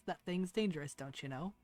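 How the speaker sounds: a nervous, faint warning; faint shaky voice. Acted. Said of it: "faint, shaky voice of Sarzov".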